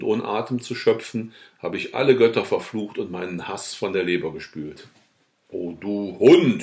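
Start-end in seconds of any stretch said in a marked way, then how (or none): 5.5-6.6 slow, loud outcry of rage; furious cry at the vandal; shouting. A narrator's reading. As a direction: hurl the insult out slowly and loudly. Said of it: "schrie ich".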